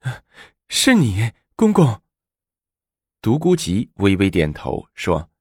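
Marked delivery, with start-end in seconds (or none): 0.0-2.0 happy surprise. Acted. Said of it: "她惊喜地说".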